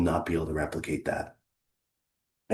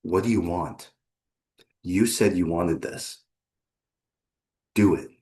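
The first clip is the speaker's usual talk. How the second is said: staring challenge; 2 semitones lower than usual. Acted. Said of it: "I'm staring into your soul".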